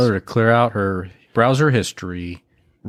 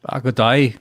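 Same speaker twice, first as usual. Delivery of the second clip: mock Australian greeting; lightly put-on Australian accent; slower than usual. Podcast host answers a British caller, mock Australian accent. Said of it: "with an Australian accent".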